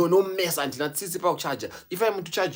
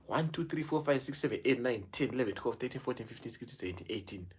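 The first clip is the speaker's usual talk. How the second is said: fading count; 5 semitones lower, 10 dB quieter than usual. Real, not acted. Counting fades away.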